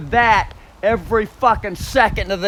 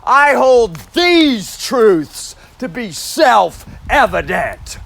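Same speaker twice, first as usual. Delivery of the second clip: Japanese inflection. Shown as a demonstration. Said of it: "these truths with Japanese inflection".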